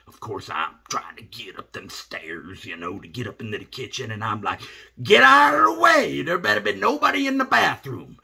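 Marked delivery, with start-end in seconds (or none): 5.0-8.2 high, loud urgent holler to clear the way; desperate yell. Retold or imitated. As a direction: shout everyone out of your path. Desperate rush to the bathroom.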